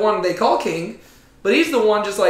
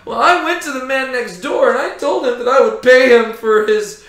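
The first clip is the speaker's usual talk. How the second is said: a touch of whiny complaint, starting louder; blubbering Ahab; 3 semitones higher, 4 dB louder than usual. Acted. Ahab complaining to Jezebel, lightly whiny. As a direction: tell it like a sulking child tattling. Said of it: "imagine him blubbering".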